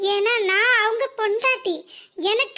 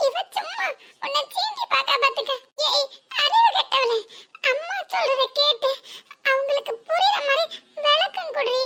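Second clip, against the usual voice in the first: higher voice, coaxing mother with a laugh; calm mother down, then snap at sister; soothing elder sister; 7 semitones higher than usual. Acted. Elder sister reassures crying mother, then scolds sister, high voice. Second daughter comforts mother.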